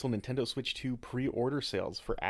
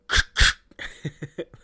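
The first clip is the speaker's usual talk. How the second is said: gun cock sound; 5 semitones higher, 13 dB louder than usual. Pretend. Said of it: "That was a gun cock sound".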